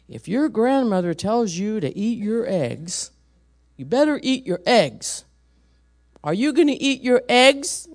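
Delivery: lightly acted stern officer, loud and emphatic; stern policeman. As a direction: lay down the law to a small child. Acted policeman sternly warning child.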